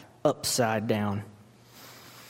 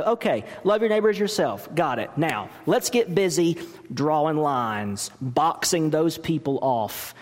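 voicing the lawyer. Preacher voices the self-justifying lawyer.

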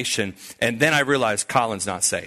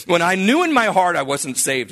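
higher, fervent imitated prayer; retold crying out to God; 6 semitones higher, 4 dB louder than usual. New convert confessing to God in prayer, crying out. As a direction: build an acted impassioned confession. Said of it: "he's crying out to God".

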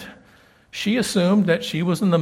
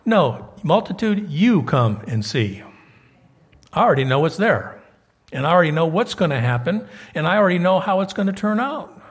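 Jesus speaking; 3 dB louder than usual. Retold or imitated. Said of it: "He's saying".

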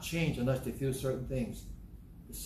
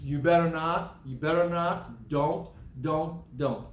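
mock scolding; 2 semitones higher, 4 dB louder, slower than usual. Preacher mimics scolding church voice.

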